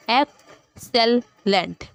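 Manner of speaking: "एक्सेलेंट" very slowly as एक, सेल, लेंट; syllabic division. Shown as a demonstration. Teacher giving syllabic division, "एक्सेलेंट" in three isolated beats. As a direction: pause after each syllable of "एक्सेलेंट". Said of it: "syllabic division हमने देनी".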